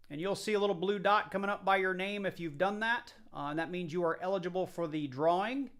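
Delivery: distant, off-mic voice; speaking away from the microphone; far from mic. Real, not acted. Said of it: "sorry if I sound far away".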